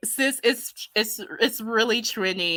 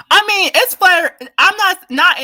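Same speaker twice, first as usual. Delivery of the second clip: higher and louder, cutting herself off; sudden loud, higher-pitched protest; heated outburst; 10 semitones higher, 10 dB louder than usual. Real, not acted. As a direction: burst out to correct the comment. Heated correction of chat comment.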